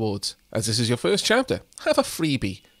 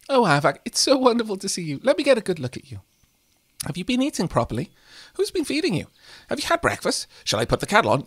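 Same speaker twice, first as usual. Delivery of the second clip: lightly voiced fussing grandmother, a bit higher; doting grandma voice; 4 semitones higher, faster than usual. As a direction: gush over the grandson like a lightly voiced nana. Reads Grandma character's dialogue.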